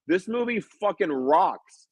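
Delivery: high, slow mock yell of delight; imitating a screaming fan. Fan shouting mid-screening, in a high, slow mock yell. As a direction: play the thrilled fan in the audience. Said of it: "someone screamed in the middle".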